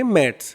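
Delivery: "मैट्स" ending in a voiceless s; S sound at the end. Shown as a demonstration. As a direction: say "मैट्स" with a crisp s ending, not z. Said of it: "इसका उच्चारण से से होगा". ("मैट्स" के अंत में स की आवाज़)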